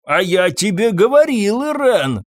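high, loud accusing yell; shouting. A narrator's reading. Drunk husband yelling at his wife, loud accusation. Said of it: "кричал Фабьен".

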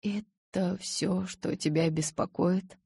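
very slow words squeezed through gritted teeth; man forcing out a tense question. Acted. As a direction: force it out through clenched teeth. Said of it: "выдавил он сквозь зубы".

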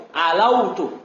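Alautu with a short single w, not doubled; single waw. Shown as a demonstration. Teacher correcting students to say Alautu without doubling. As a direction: keep the w in Alautu light and short. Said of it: "Jangan kasih tasdid wawnya".

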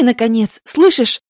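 loud, high impatient shout; hissed. Acted. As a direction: demand he listens, yelling. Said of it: "Мария прошипела".

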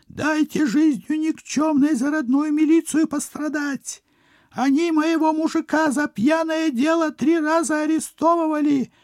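high, loud shrieking village woman. Acted. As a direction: shriek it like a tipsy country wife. Village woman rushes to fight.

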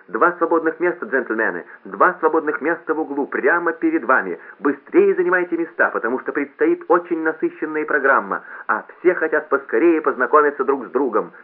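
high, loud public-address announcement; loudspeaker announcer. A narrator's reading. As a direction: call it out brightly to a whole hall. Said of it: "сказал громкоговоритель".

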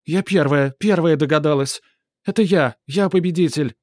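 high, loud indignant whining; cartoon princess. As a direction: demand it like a spoiled girl. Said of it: "возмущённый голос принцессы". (возмущённая капризная принцесса)

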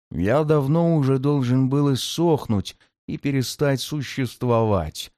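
a tired, ancient demon lord. Acted.

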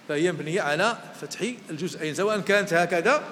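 usual speaking voice

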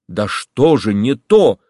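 bewildered. A narrator's reading. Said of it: "в недоумении говорила Варенька".

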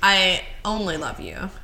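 I stressed, rising; I only love you with the weight on I. Shown as a demonstration. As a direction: lean on the word I. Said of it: "what word you put the inflection on".

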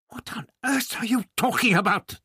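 put-on high, pressing question from an old man; the baffled doctor pushes Barbara for an answer; demanding old man. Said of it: "the doctor demanded".

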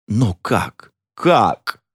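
theatrical despair; desperate question. A narrator's reading. Desperate count begs for advice.

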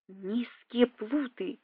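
breathless, slow, wheezing rasp; wind knocked out. A narrator's reading. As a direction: gasp it out from the floor, choking. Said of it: "задыхаясь, прохрипел Валентина, лёжа на полу".

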